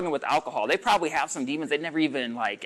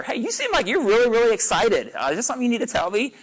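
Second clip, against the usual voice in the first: kind observation; 7 semitones higher, 3 dB louder than usual. Shown as a demonstration. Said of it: "point that out to them in a kind way".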